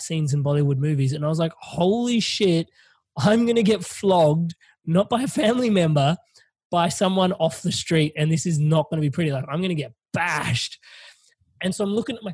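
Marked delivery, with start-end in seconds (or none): 1.6-10.8 retold panic. Proceeded to basically just shit myself.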